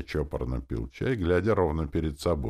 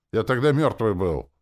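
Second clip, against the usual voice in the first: ordinary delivery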